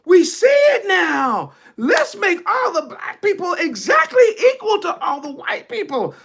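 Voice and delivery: mock the government groveling over the marches. Preacher mocking the government's fake repentance, hammed-up high voice. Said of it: "the government gonna be like".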